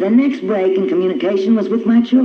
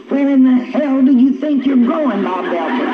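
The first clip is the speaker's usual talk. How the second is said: mild retold yell, pitched higher; a wife yelling after her husband, half-acted; mock scream; 6 semitones higher than usual. Wife yelling at husband driving off, mild mock yell. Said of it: "and I'd scream".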